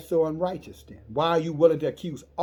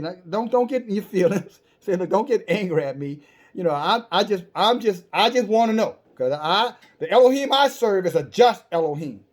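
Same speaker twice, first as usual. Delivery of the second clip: earnest pleading; 4 semitones higher, 6 dB louder than usual. Acted. Abraham calms the angels, pleading.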